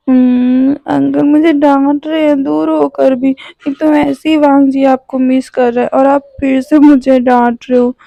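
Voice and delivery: a hint of fake tears, whiny and sulky; mock sob of a sulking boy; fake crying whine. Boy whining to his distant uncle on the phone, mildly fake crying. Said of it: "ये बोलते हुए वो रोने लगा".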